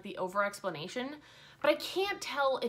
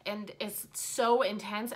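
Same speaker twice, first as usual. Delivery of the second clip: put-on British narrator accent. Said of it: "he's talking like this".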